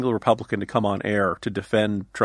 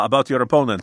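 light, hammed-up Russian accent; a lightly voiced Russian agent, playing it for laughs; mock Russian accent; 4 dB louder than usual. Pundit mocking a foreign offer, in a light Russian accent. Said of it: "this is my Russian accent".

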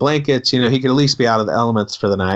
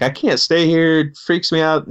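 retold freak-out, pitched up a little; mock freak-out; 5 semitones higher than usual. Transient guy refusing the lodge bed, mock freak-out. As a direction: imitate someone mildly freaking out. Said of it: "he freaks out and he's like".

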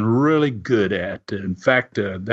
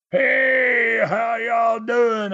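retold yell; 9 semitones higher, much slower than usual. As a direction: belt it out to grab the whole bar's attention.

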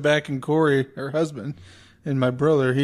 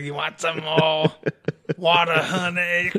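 waitress voice; 2 semitones higher, slower than usual. Retold or imitated.

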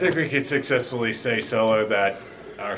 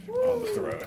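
squeaky high voice; 6 dB quieter than usual. Pretend.

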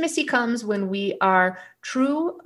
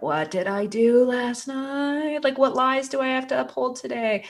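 morning-after dread; 6 semitones higher than usual. Acted. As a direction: act out waking up wondering what you did. Voicing regretful morning-after thoughts.

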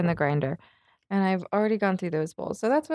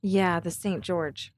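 stoner; 4 semitones lower than usual. Real, not acted. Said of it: "I'm stoned".

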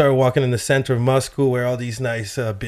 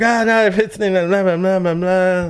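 higher, louder mock foreign gibberish; imitated phone chatter; 7 semitones higher, 4 dB louder than usual. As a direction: babble like someone on the phone. Imitating Russian phone talk.

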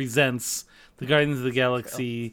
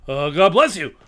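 Rodney Dangerfield; 5 dB louder than usual. Acted. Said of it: "I said it like that".

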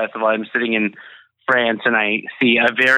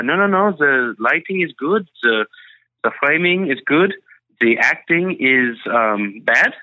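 put-on French accent. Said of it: "in his French accent".

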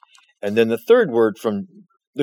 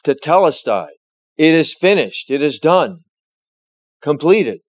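raised, proclaiming voice, a bit louder; loud cry; 4 semitones higher, 4 dB louder than usual. Retold or imitated. Preacher voicing Christ's last cry from the cross, loudly. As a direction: call the words out like a victory. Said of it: "He says in a loud voice".

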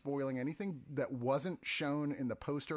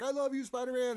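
much higher, adoring squeal; gushing fan; 10 semitones higher, 4 dB louder than usual. Retold or imitated. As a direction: swoon like a starstruck fan.

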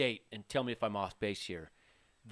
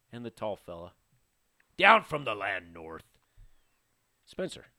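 sultry perfume ad; 3 semitones lower, 4 dB louder than usual. Acted. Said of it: "That was his sultry voice".

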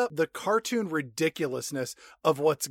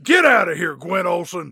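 mock shout; 6 dB louder than usual. Rourke shouting her out.

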